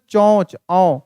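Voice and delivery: चोंच with a nasalized औ; chandrabindu demo. Shown as a demonstration. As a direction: open nasal vowel in चोंच, no full n. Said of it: "जबकि चोंच बोल रहे".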